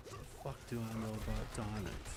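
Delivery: quiet, gruff Cockney gangster voice; Jason Statham impression. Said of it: "That's my Jason Statham".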